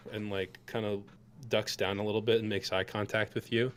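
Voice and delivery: ordinary delivery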